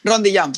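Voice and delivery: showing there is no strong R in "Rond de jam"; no rolled R. Shown as a demonstration. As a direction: demo "Rond de jam" with barely any R. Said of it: "It's just like this".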